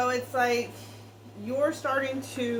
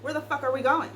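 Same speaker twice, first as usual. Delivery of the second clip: exasperated alarm; 3 semitones higher than usual. Retold or imitated. Reader voicing the querent confronting the partner, alarmed and indignant. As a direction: demand to know where this is headed. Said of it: "because you're like".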